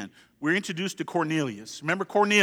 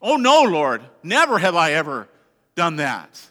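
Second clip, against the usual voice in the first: louder pleading protest with recoil; revolted Peter; 5 dB louder than usual. Acted. Preacher voicing Peter refusing the Lord, revolted. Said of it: "physical revulsion".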